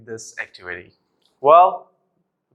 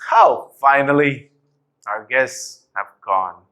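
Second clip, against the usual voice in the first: annoyed tone; slower than usual. Shown as a demonstration. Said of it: "I'm gonna be annoyed".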